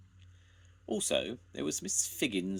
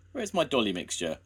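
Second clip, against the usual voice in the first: wailing; 5 semitones higher, 5 dB louder, faster than usual. A narrator's reading. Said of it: "wailed Missus William".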